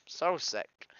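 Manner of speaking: loud, exasperated burst, high; loud frustration. Real, not acted. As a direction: let it burst out, fed up. Frustrated outburst about constant fighting.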